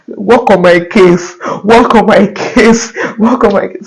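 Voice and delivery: slow, insistent prayer chant, acted out; commanding prayer. Applicant praying on the case officer's name, commanding. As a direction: re-enact ordering someone in prayer, drawn out. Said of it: "I started commanding her in prayer".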